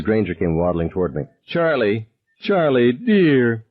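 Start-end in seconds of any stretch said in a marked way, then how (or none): 1.5-3.6 lightly voiced fretting matron; a hint of a flustered neighbour lady; fussing old lady. A narrator's reading. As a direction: coo at the crying boy. Fussing neighbour woman coming over.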